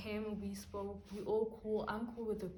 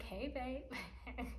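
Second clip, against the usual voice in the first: higher-pitched, light 'hey, babe'; sweet greeting; 3 semitones higher, 4 dB quieter than usual. Retold or imitated. Picking up the boyfriend's call, sweet greeting. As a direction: greet a partner sweetly on the phone.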